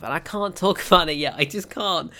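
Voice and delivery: can't hold back a laugh; teasing laugh mid line. Real, not acted. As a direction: giggle through the words. Laughs while teasing news.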